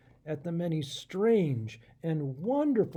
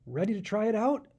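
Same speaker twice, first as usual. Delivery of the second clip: cheerful; 4 semitones higher than usual. Acted. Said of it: "Sam said cheerfully".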